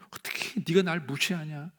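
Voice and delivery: mildly hammed-up indignant outburst; acted indignation. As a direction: sound wronged and resentful. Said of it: "상처를 받으면 막 분하고 억울한 거예요". (분하고 억울한 듯 따지는 흉내)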